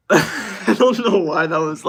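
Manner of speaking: high, loud and slow, breaking into laughter; laughing. Real, not acted. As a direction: talk through a real laugh. Cracking up at a chat message.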